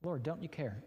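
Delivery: rising, pleading complaint to God; a pleading, exasperated "do you not care". Retold or imitated. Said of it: "I have said".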